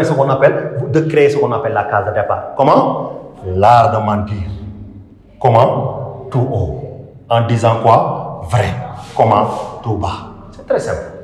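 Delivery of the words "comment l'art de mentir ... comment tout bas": teacher's measured self-answered drill; question and answer. Shown as a demonstration. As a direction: ask "Comment?", then answer each phrase low and falling. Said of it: "une forme de question et de réponse".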